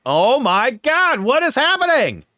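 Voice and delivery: high, slow mock bewilderment; mock shock. Streamer retelling friend's odd restaurant tip, mock shock. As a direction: draw it out, baffled. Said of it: "I'm like".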